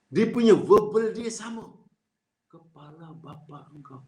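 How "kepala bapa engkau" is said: neutral wording demo. Shown as a demonstration. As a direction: say it softly without any bite. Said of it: "Intonasi dia berbeza". (diucapkan pelan dan rendah)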